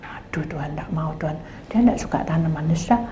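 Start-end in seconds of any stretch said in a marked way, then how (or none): 0.0-1.3 much softer, voiceless plea; whispered plea. Retold or imitated. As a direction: whisper the refusal to God. Pleading privately to God.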